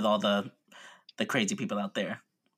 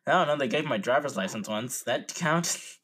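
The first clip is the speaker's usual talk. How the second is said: clueless test taker; 4 semitones higher, 4 dB louder than usual. Pretend. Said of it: "be talking like this to the moderator".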